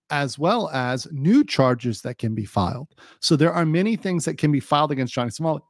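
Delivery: talking through hiccups; hiccupping between words. Real, not acted. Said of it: "got the hiccups today".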